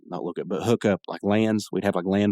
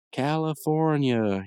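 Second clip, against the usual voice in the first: high, slow drawn-out California; imitating the kid; 5 semitones higher, much slower than usual. Kid in the movie who keeps repeating California, slow and high. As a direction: mimic a kid chanting it dreamily. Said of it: "He just keeps saying California".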